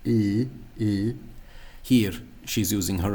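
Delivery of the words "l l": "L" as a light, palatal Irish slender l; tongue to the palate for a slender "L". Shown as a demonstration. Teacher isolating the right sound, slender "L". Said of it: "the slender L".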